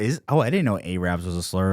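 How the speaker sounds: ordinary talk, nothing marked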